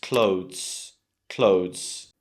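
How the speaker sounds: "clothes" as one drawn-out syllable, klohdhz; correct clothes. Shown as a demonstration. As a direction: model "clothes" slowly with no extra vowel. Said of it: "you don't need to say that".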